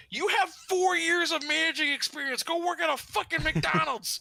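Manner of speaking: high-pitched, incredulous retold rant; exasperated urging. Applicant tells experienced manager to go elsewhere, exasperated. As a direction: push him in a high, exasperated voice.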